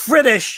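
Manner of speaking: "British" opening on F, as Fritish; coined mispronunciation. Shown as a demonstration. Co-host confirming the nickname, "British" said as Fritish. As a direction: swap the B of "British" for an F. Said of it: "It's a fake ass British accent".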